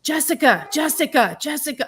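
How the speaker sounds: high repeated calling; calling a name. Retold or imitated. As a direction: try to bring someone round. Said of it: "my boyfriend going".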